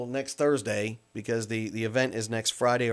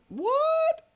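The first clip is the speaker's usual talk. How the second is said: startled what. Real, not acted. Host startled by early start.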